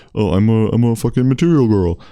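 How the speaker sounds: mock singsong material girl; hammed-up meme voice; meme quote. Mocking a moviegoer quoting the meme, hammed-up. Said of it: "someone starts quoting".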